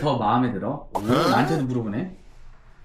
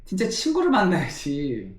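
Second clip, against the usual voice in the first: excited protest; 6 semitones higher than usual. Real, not acted. Protesting to viewers.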